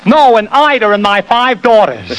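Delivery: high peppy tenor comeback; impression of a singer. Shown as a demonstration. Mimic answers the host's income tax question, peppy and high. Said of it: "take Eddie Cantor again".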